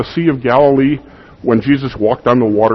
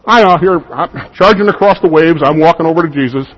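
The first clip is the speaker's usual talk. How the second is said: high, loud, confident striding voice; bold mock bravado; 5 semitones higher, 3 dB louder than usual. Preacher playing Peter striding boldly across the waves. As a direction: puff it up like a man walking on waves.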